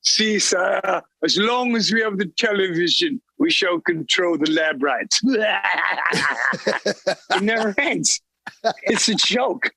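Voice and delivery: scheming British villain voice; sly posh English lord; English accent. Acted. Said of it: "I heard an English accent".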